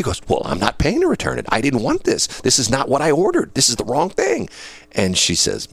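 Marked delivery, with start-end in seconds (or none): 0.3-4.5 retold protest climbing in pitch; arguing customer. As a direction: argue back, higher with each objection. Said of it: "a lady up there arguing".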